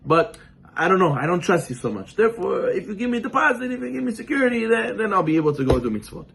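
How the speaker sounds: high, pleading mock petitioner; mock plea climbing high on deposit and security; whiny bargainer. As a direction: haggle with Hashem like a doubtful customer. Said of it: "So that's what people do to Hashem".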